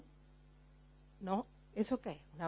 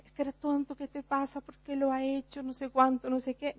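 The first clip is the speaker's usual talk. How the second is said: mock scolding; 3 semitones higher, 5 dB quieter than usual. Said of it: "Lo malo es lo que viene después".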